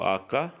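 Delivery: آقا slow and careful, Italian H; Italian letter name. Shown as a demonstration. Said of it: "ایچ کو".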